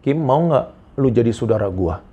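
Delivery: slow, shaky voice trembling with feeling. Retold or imitated. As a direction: let the voice tremble on the question, slowly. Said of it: "dengan suara tergetar loh". (suara bergetar pelan)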